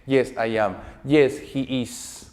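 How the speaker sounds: "I am" and "he is" slow, each word separate; full forms. Shown as a demonstration. Teacher modelling fluent short answers, "I am" and "he is" said in full, slowly. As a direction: stretch out "he is" uncontracted, very slowly. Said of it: "Por una cuestión de entonación y de fluidez".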